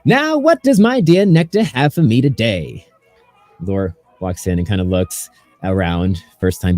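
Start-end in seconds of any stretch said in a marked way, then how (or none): 0.0-2.9 higher, smooth host voice; suave captain. Acted. Captain welcoming the crew to his lounge, smooth and higher. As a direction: purr it like a charming captain. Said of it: "beckons you all in and goes".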